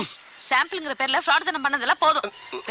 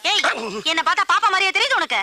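angry policewoman; 4 semitones higher, faster than usual. Acted. Angry policewoman confronts man.

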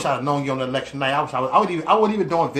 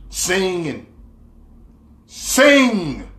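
impatient urging; 4 semitones higher, 3 dB louder, much slower than usual. Retold or imitated. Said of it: "I was like".

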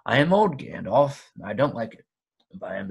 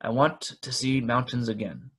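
put-on a lively elderly hobbit; cheerful, slightly fussy old hobbit. Bilbo's dialogue, voiced.

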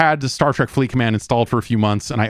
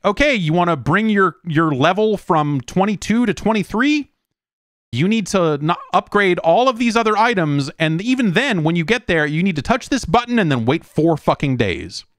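mock game voice; 6 semitones higher than usual. Mocking the game's demands.

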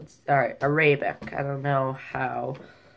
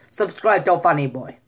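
rough attempt at a Russian accent; louder line in an imitated Russian accent; 5 dB louder than usual. Shown as a demonstration. Vlogger trying accents on his channel plug, mock Russian. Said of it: "He doesn't really can nail Russian".

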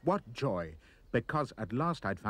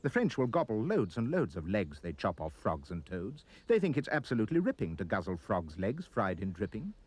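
ordinary delivery, nothing marked

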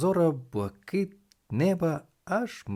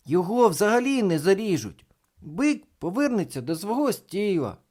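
put-on high, insistent boyish voice; emphatic boy; 9 semitones higher, 5 dB louder than usual. A narrator's reading. Thomas defending the bull to reporter, high emphatic voice.

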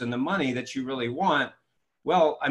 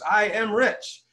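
higher, drawn-out mock group chant; crowd reciting affirmation; 7 semitones higher, much slower than usual. Conference crowd repeats the affirmation on cue, mock chanting. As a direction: imitate a crowd slowly intoning it. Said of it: "Everybody goes".

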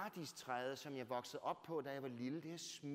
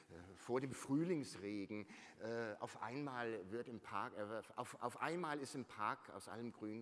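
dreamy recital; 5 semitones lower than usual. Retold or imitated. Cosy reverie, reciting Rilke in German.

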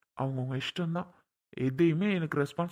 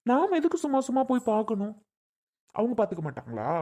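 raised, higher indignant demand; angry protest; 3 semitones higher than usual. Acted. Husband refusing in quarrel. (எரிச்சலுடன் உயர்ந்த குரலில்)

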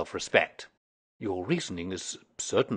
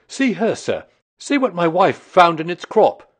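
excited; 7 semitones higher, 8 dB louder than usual. A narrator's reading. Excited man showing the stone.

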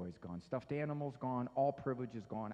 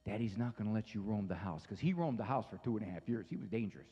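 low, soft, steady bedtime firmness; calm firm dad; 8 semitones lower, 4 dB quieter than usual. Retold or imitated. Dad quietly tells his son to stay in bed, low and calm. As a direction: settle the boy down quietly but firmly. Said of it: "I said".

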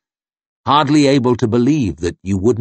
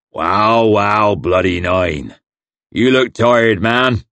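hillman Crummock; slower than usual.

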